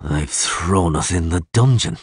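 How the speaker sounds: slow, gloomy realisation. Acted. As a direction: drag it out glumly. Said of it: "he said gloomily".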